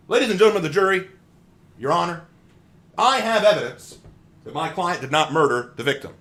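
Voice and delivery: loud, high courtroom lawyer voice; honeyed southern lawyer drawl. Acted. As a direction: grandstand to the jury. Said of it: "Let's say that I'm a lawyer".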